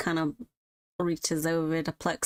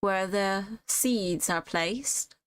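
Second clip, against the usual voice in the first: light southern twang. Acted. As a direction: muse on flowers with a hint of southern twang. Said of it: "slightly giving a southern twang to her".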